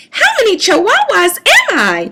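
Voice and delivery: a hint of kitten wonder; wondering aloud. A narrator's reading. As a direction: marvel at it out loud. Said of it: "he wondered out loud".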